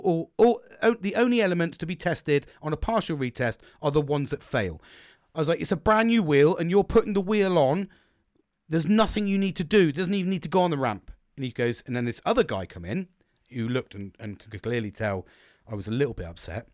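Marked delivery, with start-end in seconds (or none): 5.6-11.1 higher, emphatic arguing; retold protest, pitched up and insistent; exasperated insistence. Customer argues a new wheel needs no ramp, exasperated.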